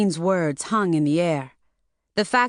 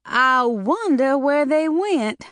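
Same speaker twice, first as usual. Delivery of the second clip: put-on nervous young woman; 8 semitones higher, slower than usual. A narrator's reading. Mona feigning innocence.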